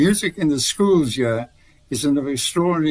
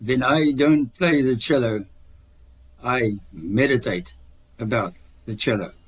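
put-on Russian accent. Guest quoting a Russian cellist, mild Russian accent. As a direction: lightly mimic a big Russian cellist's accent. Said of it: "in his rough, uh, Russian accent".

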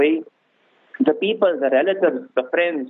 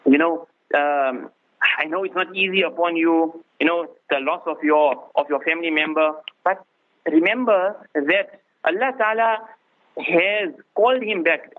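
consoling words; 3 semitones lower than usual. Shown as a demonstration. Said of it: "You explain to them".

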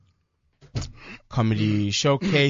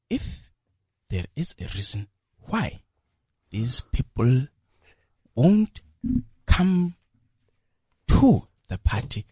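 slow, halting speech in a hint of the president; president impression; slower than usual. Comedian asked to impersonate the president, slow and halting. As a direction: drag it out with long pauses like the president. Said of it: "can you do our president".

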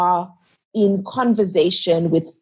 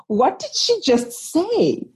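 stunned disbelief; 9 semitones higher, slower than usual. Retold or imitated. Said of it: "I remember sitting there and going".

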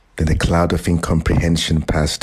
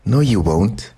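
sudden shout; 5 semitones higher than usual. A narrator's reading. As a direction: blurt it out before he can stop. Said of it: "He didn't realize he'd shouted".

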